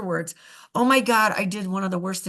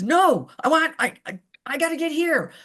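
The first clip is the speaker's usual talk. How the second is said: Whoopi Goldberg voice; 5 semitones higher, 3 dB louder than usual. Retold or imitated. Whoopi refusing, retold.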